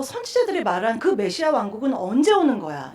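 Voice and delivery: mildly acted-out grievance; imitated complaint. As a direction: grumble like an impatient people, mildly. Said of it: "이렇게 불평을 터뜨리면서". (불평하는 백성을 가볍게 흉내 내듯)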